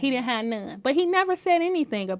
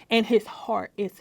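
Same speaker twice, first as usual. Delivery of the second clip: whisper; 4 semitones lower, 4 dB quieter, slower than usual. Real, not acted. Tender praise of husband.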